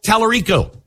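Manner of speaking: Tallarico sung out high, dropping at the end; singsong name drop. Pretend. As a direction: toss out "Tallarico" in a high lilting call. Host names the candidate twice.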